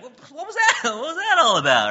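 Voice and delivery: high, laughing what-was-that; laughing mock confusion; laughing bewilderment. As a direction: squeal it through a laugh. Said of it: "I'd be there like".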